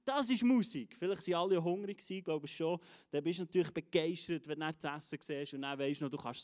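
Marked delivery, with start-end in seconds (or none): 0.0-1.0 high, thrilled crowd exclamation; acted enthusiasm. Fed crowd jumping up after the miracle, excited. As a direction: burst out as if jumping up in amazement. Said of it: "sind die Leute begeistert gewesen".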